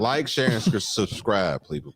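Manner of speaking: stumbling on subscribe, laughing; laughing through it. Real, not acted. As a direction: laughs mid-word and restarts. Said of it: "I can't say it".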